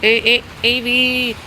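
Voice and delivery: high, loud alarmed scolding; scolding the dog. Real, not acted. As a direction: stop the dog, sharply. Scolding dog scattering garbage.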